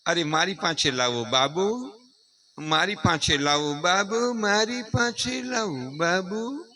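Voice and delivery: lightly voiced coaxing father, slow; a hint of a father cooing over the baby; doting father. Father asking for the crying baby, slow gentle coaxing. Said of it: "ઈ પાછો આમ આમ થતો આવે".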